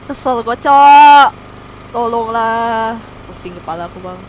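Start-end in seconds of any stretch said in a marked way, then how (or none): 0.1-2.9 loud, slow exasperated groan; fed-up outburst. Real, not acted. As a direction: drag it out, annoyed and loud. Fed-up streamer complaining loudly.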